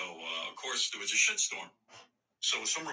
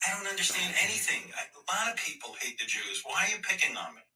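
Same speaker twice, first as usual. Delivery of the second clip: mocking whiny Kyrie; 9 semitones higher than usual. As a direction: whine like a spoiled brat caught out. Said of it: "he's just a fucking moron".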